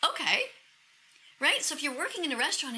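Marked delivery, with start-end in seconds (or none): 0.1-0.5 pitched-up little "oh, okay"; imitating a surprised customer; pleasantly surprised. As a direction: react lightly, as if taken by surprise. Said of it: "And she's like".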